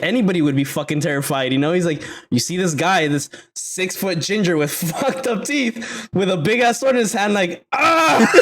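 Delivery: hammed-up retelling of a scared British soldier; retold comedian bit. Friend retelling a comedian's joke, laughing mock scream.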